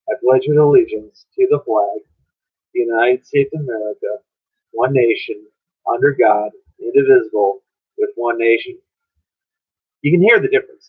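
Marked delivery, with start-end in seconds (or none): 0.1-8.8 smiling. Shown as a demonstration. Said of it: "how it sounds when I'm smiling".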